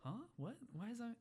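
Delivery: high-pitched mock innocence; imitating kids acting clueless; feigned surprise. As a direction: play dumb, voice going up. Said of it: "the kids are acting up like".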